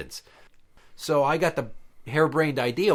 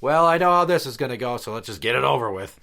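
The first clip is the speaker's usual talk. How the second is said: a bored dog giving in, loud at first then settling; weary dog voice; 3 dB louder than usual. Retold or imitated. Old dog sighing at the other dog, lightly voiced and resigned.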